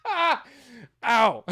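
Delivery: laugh, then a sharp ow; laughing through pain. Real, not acted. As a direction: laugh breaking into a pained yelp. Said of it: "It hurts to laugh".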